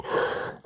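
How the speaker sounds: soft, voiceless breath out; imitated deflating sigh; demonstrated exhale. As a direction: act out sudden release. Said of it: "All of a sudden I went from, I just, like".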